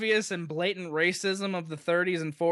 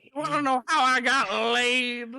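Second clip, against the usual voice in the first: Bill Cosby impression; 6 semitones higher than usual. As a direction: go full Cosby, laughing through it. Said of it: "Bill Cosby".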